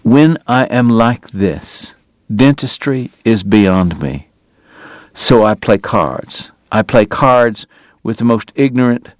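slow, bitter, precise; slow clipped bitterness, holding himself together; bitter precision. Acted. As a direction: measure out each word with bitter care. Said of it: "bitter, quiet, hard-won precision".

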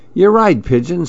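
a touch of rueful admission; high, mildly dismayed mouse; dejected mouse. Acted. Mouse gives up, lost.

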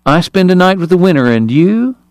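lilting, high feminine character voice; airy. A narrator's reading. Kate toying with Greer over the bet, airy. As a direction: swoop up high on a feigned recollection. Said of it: "Kate asked Greer airily".

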